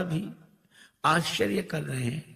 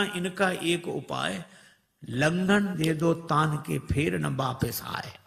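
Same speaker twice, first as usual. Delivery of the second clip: slow recital; slower than usual. Shown as a demonstration. Reciting proverb slowly.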